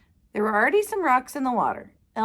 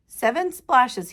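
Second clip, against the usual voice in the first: slow proud count; 2 semitones higher, 5 dB louder, slower than usual. Acted.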